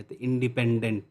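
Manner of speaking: इंडिपेंडेंट with the pen syllable stressed. Shown as a demonstration. Teacher demonstrating word stress to the class. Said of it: "इस पे बहुत ज़्यादा stress दिया है".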